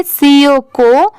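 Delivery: सी ओ spelled slowly, then को with a long o; teacher's drawn-out सी ओ को; separate syllable reading. Shown as a demonstration. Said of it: "अगर इसे separate separate पढ़े तो ऐसे पढ़ेंगे".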